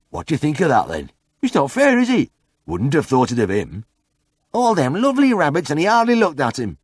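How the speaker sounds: muttering villager. A narrator's reading.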